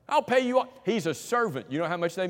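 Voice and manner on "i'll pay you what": incredulous repeat. Retold or imitated. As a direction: scoff at the promise as if it's absurd. Preacher mocks the servant's promise.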